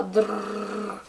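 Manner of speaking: rolled drrrr like a whirring camera; imitated camera buzz. Explaining to viewers the noise her camera makes, rolled buzz. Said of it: "så låter det så här".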